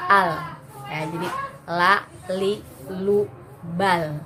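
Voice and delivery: al la li lu bal with the tongue kept in; tongue-in clean la li lu; correct la. Shown as a demonstration. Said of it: "tidak dikeluarkan".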